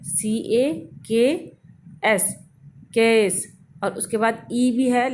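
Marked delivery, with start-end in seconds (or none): 0.0-3.6 "केस" broken into के and स, then joined; sounding out. Shown as a demonstration. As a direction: sound out "केस" piece by piece with the final e silent. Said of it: "ए sound तो हम बोल रहे हैं".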